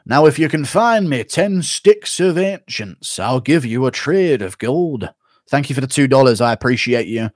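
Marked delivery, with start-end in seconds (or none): 0.1-5.1 a hint of a slow game quest giver; lightly voiced fantasy NPC offering a trade. Streamer doing a game NPC, slow and mild. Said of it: "N P C from Skyrim or The Witcher".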